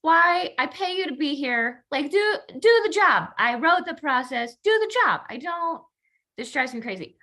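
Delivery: frustrated boss. Retold or imitated. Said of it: "my initial reaction to the story is like".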